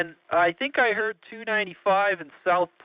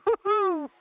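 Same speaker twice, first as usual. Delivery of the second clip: excited whoop; 10 semitones higher than usual. Real, not acted. Playful cheer on the radio.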